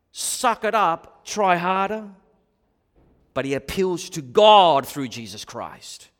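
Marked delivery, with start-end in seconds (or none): 0.1-2.1 louder, higher, slow \"suck it up\" bark; mock tough-love scolding. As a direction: scoff it like a drill sergeant. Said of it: "Notice how he doesn't say".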